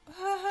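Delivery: a nervous, uncertain little laugh; awkward laugh at a stranger's line; awkward fake laugh. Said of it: "I made this sound".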